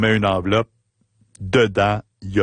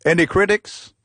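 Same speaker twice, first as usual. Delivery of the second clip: put-on high, curious British-accented question; Paul asking; 8 semitones higher than usual. Paul asking the fan for critiques, high and curious. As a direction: lift it up as a friendly question. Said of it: "Il me dit".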